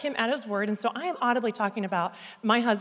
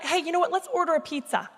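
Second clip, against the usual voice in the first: higher, casual pitch of an idea; casual suggestion; 5 semitones higher than usual. Retold or imitated. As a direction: toss out a suggestion to your husband. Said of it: "And so I'm like".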